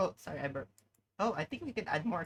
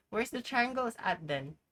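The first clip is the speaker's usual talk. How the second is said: words around a sip; talking mid-drink; while sipping a drink; 4 semitones higher than usual. Real, not acted. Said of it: "Sorry, I'm drinking something".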